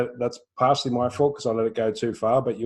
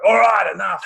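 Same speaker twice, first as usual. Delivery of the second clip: loud shouted outburst, higher; blowing up; 10 semitones higher, 8 dB louder than usual. Retold or imitated. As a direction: snap at the kids to stop, full voice. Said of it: "and you blow up".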